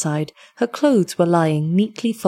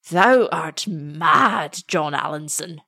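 vehement; slower than usual. Acted. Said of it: "said the old man vehemently".

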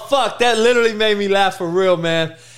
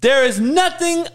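emphatic, climbing to high finality; old-school dad; 5 semitones higher than usual. Acted. Dad setting the curfew, emphatic mock finality. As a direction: lay down the law in a lightly voiced dad act. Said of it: "Here's my dad".

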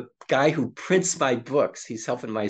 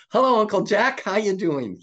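high, hearty hello; dad's hearty greeting; 8 semitones higher, 4 dB louder than usual. Retold or imitated. Dad greeting his son's friend as uncle, hearty. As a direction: imitate a dad warmly hailing a guest.

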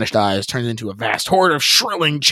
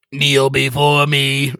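thundering; 4 semitones higher, slower than usual. Acted. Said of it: "it thunders".

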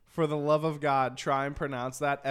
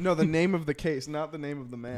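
"case" and "man" set against each other; stress on case and man. Real, not acted. Co-host correcting a misunderstood question, contrastive stress.

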